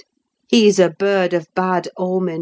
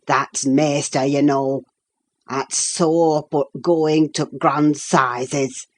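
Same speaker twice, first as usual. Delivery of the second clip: put-on old Yorkshire servant; 2 semitones lower than usual. Nelly quoting Joseph's gossip in broad Yorkshire. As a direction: gossip in thick Yorkshire speech. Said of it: "it was Joseph who told me".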